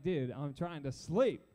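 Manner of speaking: low, slow weary protest; mildly annoyed. Acted. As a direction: grumble like someone kept from sleep. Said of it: "I don't know if he was annoyed".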